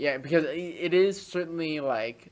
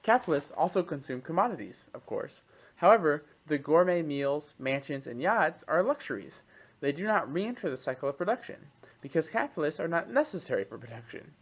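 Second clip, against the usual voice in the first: measured expository read-aloud, crisp phrase by phrase; 2 semitones higher than usual. Acted. Podcast host reads an economics text to co-host, reading aloud. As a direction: read it out like a written treatise.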